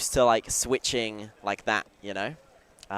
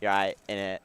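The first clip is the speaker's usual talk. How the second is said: British slang; 3 semitones lower than usual. Retold or imitated. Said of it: "using British slang".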